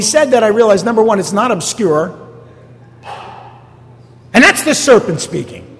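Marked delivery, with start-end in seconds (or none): 4.3-5.7 a fiery Pentecostal preaching burst; Pentecostal fervor. Real, not acted. Pastor to congregation, warning about the serpent, in Pentecostal preaching fervor. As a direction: preach it with sudden Pentecostal fire. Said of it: "I just went Pentecostal on you there".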